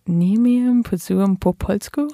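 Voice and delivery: slow, careful Polish, drawn out. Shown as a demonstration. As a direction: say the Polish phrase slowly. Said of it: "Can you say it again, slower?".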